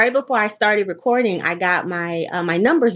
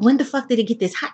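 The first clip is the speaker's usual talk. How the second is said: retold disbelief; 4 semitones higher, faster than usual. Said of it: "I'm looking at everybody like".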